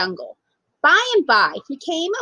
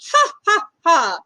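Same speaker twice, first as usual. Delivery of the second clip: mock lion laugh; 3 semitones higher, 4 dB louder than usual. A narrator's reading. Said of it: "laughed the lion".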